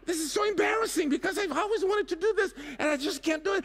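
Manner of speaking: high, fast, embarrassed wail; flustered panic. Retold or imitated. To the guide, fast high embarrassed panic. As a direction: rush it out, mortified.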